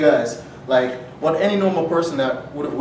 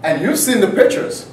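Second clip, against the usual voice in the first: threatening seagull; 4 semitones higher, 6 dB louder than usual. Acted. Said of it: "what the bird looked at me and told me".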